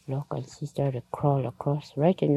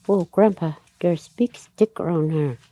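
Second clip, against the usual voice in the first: lightly acted call, louder at the start; mild raised-voice appeal to an elder; calling to Grandpa; 3 semitones higher, 4 dB louder than usual. Girl tells Grandpa of sticks, mildly called out.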